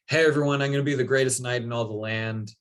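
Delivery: barge in boasting to the whole court; bold announcement. Retold or imitated. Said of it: "barges in and is like".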